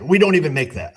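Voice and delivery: imitating the tech guy blurting it out gleefully; all excited. Napa tech guy boasting to the mechanic on the phone, mock excited. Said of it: "He's all excited".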